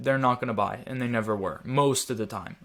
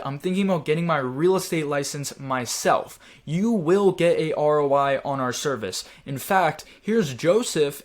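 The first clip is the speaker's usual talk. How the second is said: certain tone; 3 dB louder than usual. Shown as a demonstration. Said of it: "with a very certain tone".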